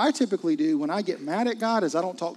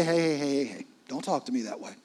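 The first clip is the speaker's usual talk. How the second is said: mock scolding; 3 semitones lower, faster than usual. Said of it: "He didn't say".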